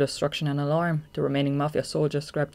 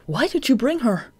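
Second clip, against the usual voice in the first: higher, louder question; puzzled young man; 9 semitones higher, 6 dB louder than usual. Acted. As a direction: ask in disbelief. Tanizaki questions.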